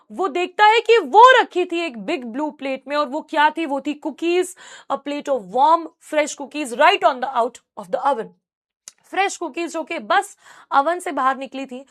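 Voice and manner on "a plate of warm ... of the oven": measured reading from the textbook; story read-aloud. A narrator's reading. Teacher reading the story to students, deliberate narration. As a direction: read it out clearly for a class.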